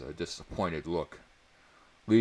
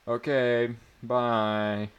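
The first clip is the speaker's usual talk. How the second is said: cheerful goodbye; 6 semitones higher, 8 dB louder, much slower than usual. A narrator's reading.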